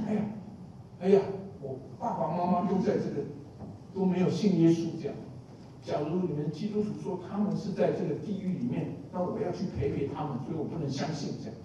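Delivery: a hint of someone excusing their unbelief; imitating an unbeliever. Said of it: "你有没有听到说".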